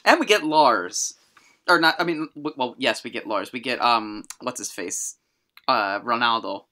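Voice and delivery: talking while chewing gum; words around a wad of gum. Real, not acted. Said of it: "Had, like, gum in my mouth".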